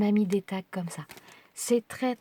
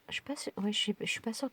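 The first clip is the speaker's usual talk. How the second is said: a quick, much softer whispered aside; 7 dB quieter, faster than usual. Real, not acted. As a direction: whisper it to yourself. Aside about being in frame. (aparté chuchoté)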